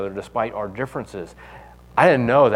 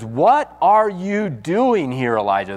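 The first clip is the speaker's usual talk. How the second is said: slow, drawn-out question, high at the start; a gently probing divine voice, slowed down; slow questioning God; 5 semitones higher, slower than usual. Retold or imitated. God asking Elijah a second time, slow and probing.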